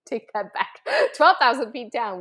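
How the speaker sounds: laughing through a correction. Real, not acted. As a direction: chuckle as you fix the number. Laughing while correcting herself.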